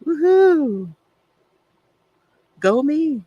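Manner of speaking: high, loud little woohoo; self cheer. Real, not acted. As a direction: cheer yourself on for a small win. Cheering herself on.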